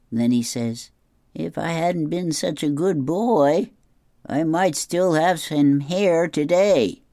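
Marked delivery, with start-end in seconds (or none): 1.3-7.0 slow, slightly raised grandpa voice; lightly voiced old man; rueful comic grandpa. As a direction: draw out the punchline as grandpa.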